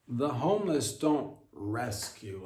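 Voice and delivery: "homeless" slow and pointed; stress on homeless. Shown as a demonstration. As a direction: drag it out, hammer "homeless". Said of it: "Let's just call it what it is".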